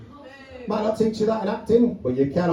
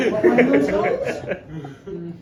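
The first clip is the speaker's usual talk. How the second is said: very slow drawn repeat; much slower than usual. Retold or imitated. Drawn out repetition.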